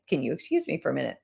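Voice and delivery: quick, soft excuse to step away; polite excuse. Shown as a demonstration. Coach excusing herself from a client, quick and soft. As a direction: slip out of the talk politely and fast. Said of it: "Literally just say".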